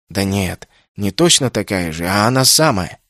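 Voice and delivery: ordinary delivery, nothing marked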